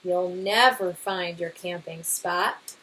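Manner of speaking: lively storybook read-aloud; reading to children. Acted. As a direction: read it to a class, bright and expressive. Teacher reads picture book aloud.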